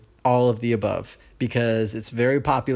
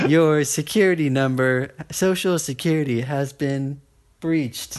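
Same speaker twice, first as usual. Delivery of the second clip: robot voice; 3 semitones higher than usual. Shown as a demonstration. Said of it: "automated robot voices reading the text".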